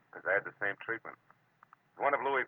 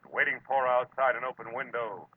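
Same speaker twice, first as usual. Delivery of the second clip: louder, higher, ominous preview read; dramatic teaser; 4 semitones higher, 6 dB louder than usual. Acted. Marlowe teasing next week's episode, dramatic and ominous. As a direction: build to the word death.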